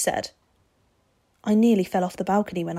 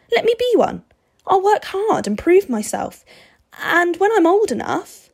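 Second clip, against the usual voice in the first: put-on eager boy's voice, climbing high and louder; boy Steve, pleading; 6 semitones higher, 6 dB louder than usual. A narrator's reading. Boy begging the vampire for an apprenticeship, pleading. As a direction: plead as a boy, building in pitch.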